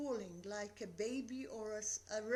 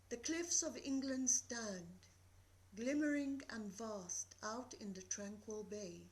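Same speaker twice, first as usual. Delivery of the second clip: calm, measured reading of Dover Beach; poem recital. Acted. Teacher reading Dover Beach to the class, calm recital. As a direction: read it like the night sea, steady.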